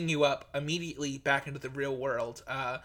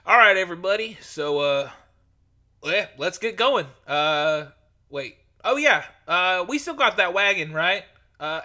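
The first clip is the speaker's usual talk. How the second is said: Sildar's voice. Acted. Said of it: "Sildar is there with a different voice".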